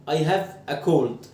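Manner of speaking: I have a cold said very slowly, word by word; slow model sentence. Shown as a demonstration. Teacher models I have a cold slowly for students. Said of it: "أنا أشعر بالبرد".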